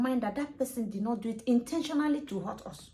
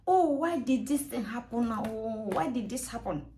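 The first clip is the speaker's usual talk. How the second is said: mildly raised, exclaiming lament; venting to oneself; 3 dB louder than usual. Acted. Alone, voicing upset over what happened, venting. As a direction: let it out aloud to yourself. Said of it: "Oh, I've let it out".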